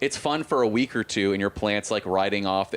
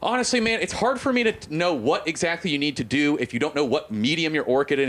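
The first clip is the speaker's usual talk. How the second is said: imitating an annoyed old man, pitched high; mock exasperated lecturing; still pissed; 5 semitones higher than usual. Nursery worker scolding a customer about orchid medium, mock irritated. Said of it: "but he was still pissed".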